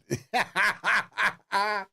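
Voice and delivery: high amused laugh; real laugh. Real, not acted. Trader laughing to viewers after being stopped out, amused laugh. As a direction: laughs off the stop-out.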